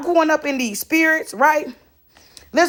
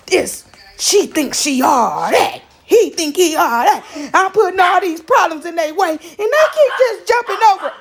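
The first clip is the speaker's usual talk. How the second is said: mocking the enemies; 3 semitones higher than usual. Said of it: "They like this".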